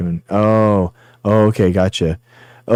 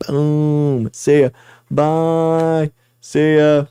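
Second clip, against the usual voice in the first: sing-song goodbyes; 6 semitones higher, much slower than usual. Acted. Sign-off goodbyes to chat.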